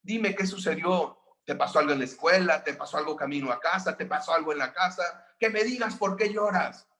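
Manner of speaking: an impatient mother demanding an answer; angry mother. Retold or imitated. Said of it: "le habla más fuerte". (una mamá enojada que exige respuestas)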